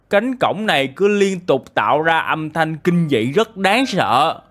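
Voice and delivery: slow, lightly acted villager complaint; angry villager. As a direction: complain slowly, with mild anger. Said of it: "Dân làng rất giận dữ".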